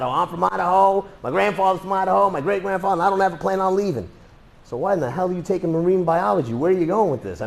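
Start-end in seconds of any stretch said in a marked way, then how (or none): 0.0-4.1 mock Idaho student. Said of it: "They're not".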